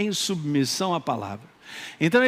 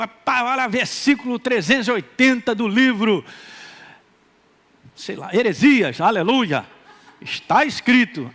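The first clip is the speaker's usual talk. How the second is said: hammed-up pious messenger, a bit louder; mock zealot; 3 semitones higher, 4 dB louder than usual. Churchgoer proudly forwarding a verse in a mock pious voice. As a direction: show off a made-up verse piously. Parodying someone sending verses.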